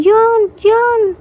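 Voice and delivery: high, eager name-calling; excited calling out. A narrator's reading. Jimin calling his husband on deck, excited call. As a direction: call the name twice, pitched well up.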